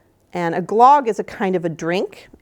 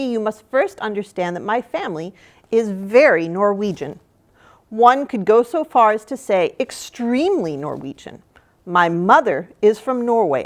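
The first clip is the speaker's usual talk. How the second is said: animated reading with emphasized key words; story read-aloud; 3 dB louder than usual. Acted. Reader voices the author's welcome to young listeners, lively read-aloud. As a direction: read the introduction expressively to children.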